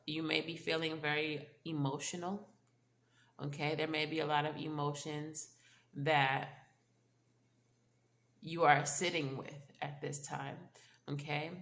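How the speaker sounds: talking through a blocked nose; stuffy nose. Real, not acted. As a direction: speak as if your nose is stuffed up. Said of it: "sound a little stuffy".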